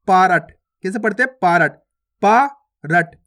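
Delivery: पारट with a full ra, paa-rat; reading with full ra. Shown as a demonstration. Teacher showing pupils how the spelled form is read, पारट as paa-rat. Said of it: "तो किस प्रकार से पढ़ते हैं".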